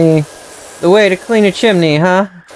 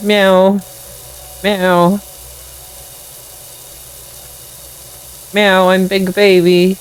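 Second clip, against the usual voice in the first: higher, plaintive mock cat meowing; cat meows; 4 semitones higher than usual. Cat stuck on roof calling for help, higher mock meows. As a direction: cry like a kitten stuck up high.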